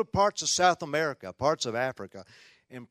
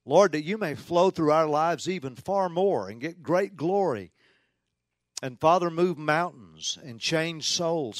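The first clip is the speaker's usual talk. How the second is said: public prayer. Real, not acted. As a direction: pray earnestly aloud for the congregation. Opening prayer before the talk.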